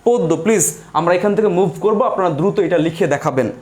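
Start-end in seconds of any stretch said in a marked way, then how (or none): 0.1-0.3 পদ্য said with a closed o in the first syllable; pronunciation demo. Shown as a demonstration. Teacher says the quiz word aloud for students, pronunciation demo. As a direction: say পদ্য as "pod-do". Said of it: "উচ্চারণটা আমি কিন্তু মুখে বলে দিচ্ছি".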